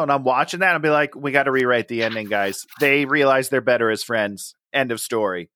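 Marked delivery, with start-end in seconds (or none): 1.1-5.5 lightly voiced director, quick and lower; a hint of a director fixing the script; mock director. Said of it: "I'm Gary Marshall".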